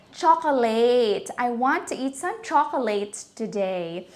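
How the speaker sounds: put-on Filipino accent, chocolate as cho-ko-LAYT; common Filipino mispronunciation. Teacher imitating what everybody says, Filipino mispronunciation. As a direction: imitate Filipinos saying chocolate with a full -late. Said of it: "Everybody would say".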